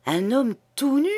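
«Un homme tout nu?» flung up in shocked indignation; outraged disbelief. Acted. Priest repeating the scandal, high and outraged.

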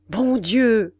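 acted exclamation on spotting a friend; startled exclamation. Customer spotting his friend in the big room, startled exclamation. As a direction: cry out in mild astonishment. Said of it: "cria-t-il".

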